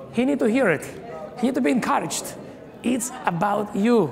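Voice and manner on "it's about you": congregation shout. Shown as a demonstration. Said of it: "Tell him, remind him".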